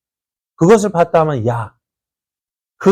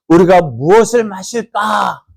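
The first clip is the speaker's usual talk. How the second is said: complaining; 5 semitones higher, slower than usual. Shown as a demonstration. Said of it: "간단하죠".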